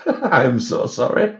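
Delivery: laughing while saying sorry; laughing apology. Real, not acted. Apologising to viewers for bad French, laughing. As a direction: apologise through helpless laughter.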